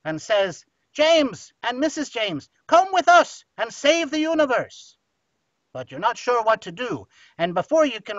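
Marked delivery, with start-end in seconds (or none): 0.9-5.0 louder on the plea, a hint of a suave film spy; Sean Connery. Tuxedoed spy recruits a couple on the beach, lightly acted. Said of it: "looks kinda like Sean Connery".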